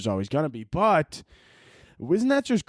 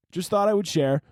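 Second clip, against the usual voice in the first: lightly raised, offhand voice; casual lady imitation; 4 semitones higher than usual. Lady in the video signing off, mimicked casually. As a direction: toss it off as a casual share. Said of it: "the lady in the video was like".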